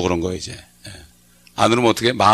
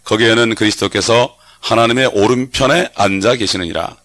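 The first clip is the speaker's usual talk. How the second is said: scripture reading; 2 semitones lower, 3 dB louder than usual. Acted.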